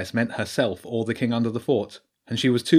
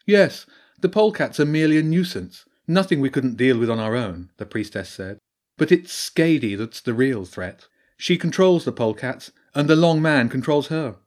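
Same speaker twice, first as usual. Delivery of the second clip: higher and louder, a wise old badger priestess; 3 semitones higher, 4 dB louder than usual. Priestess explains the Long Man to Jenny, grave and raised. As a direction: speak as the learned priestess warning of an old evil.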